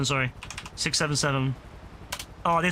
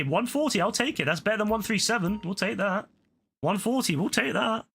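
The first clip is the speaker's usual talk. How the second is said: higher, delighted little cheer; pleased excitement; 5 semitones higher than usual. Real, not acted. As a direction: pitch it up, happy with the result. Pleased by better sale.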